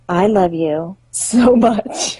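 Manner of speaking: slow, drawn-out declaration breaking into a laugh; retold gushing affection. Owner to her two cats, slow laughing affection. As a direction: lightly act out doting on pets.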